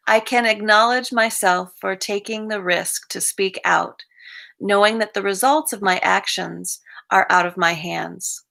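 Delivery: measured daily-reading delivery; reading aloud. Acted. Reading a recovery reflection to the group, read-aloud voice. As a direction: read it out evenly, phrase by phrase. Reads reflection and closing quote.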